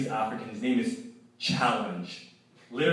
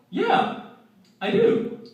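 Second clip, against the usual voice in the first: high, bright-eyed mock patient, much higher; proud patient voice; 3 dB louder, much slower than usual. Mother-to-be answering the med student, voiced much higher.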